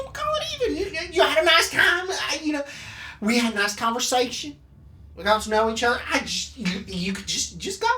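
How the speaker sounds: nervous pleading. Acted. Nervous villain bargaining to escape.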